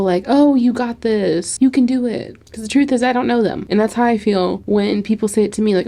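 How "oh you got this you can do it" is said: mock encouragement. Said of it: "I stopped saying to people".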